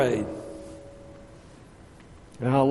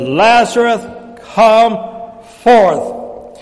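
loud, separated words, mildly raised call; yelled command; 5 semitones higher, 7 dB louder, much slower than usual. Acted. Jesus calling into the tomb, yelled command. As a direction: call out each word on its own. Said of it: "He yelled out".

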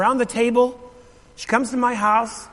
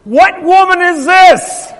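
higher, louder, slow astonished cry; stunned disbelief; 7 semitones higher, 8 dB louder, slower than usual. Retold or imitated. Preacher recalling his shock at his mom's prayer, stunned and slow. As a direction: ask it as if you can't believe your ears.

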